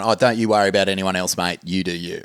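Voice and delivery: mock-patronising, quick brush-off. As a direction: talk down to a mate, dismissively. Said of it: "a patronising way of going".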